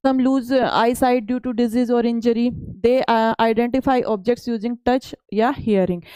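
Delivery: slow, deliberate reading of the English slide. Acted. Teacher reads the textbook slide to students, slow and careful. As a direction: read each word out for the class.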